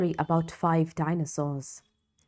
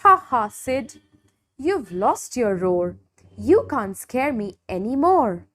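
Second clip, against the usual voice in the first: teasing Spike; 3 semitones higher than usual. Acted. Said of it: "Spike laughed".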